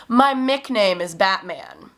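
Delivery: slow, lightly voiced small boy saying my Mick name; a mild child voice, my Mick name drawn out; little boy's answer. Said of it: "And he said".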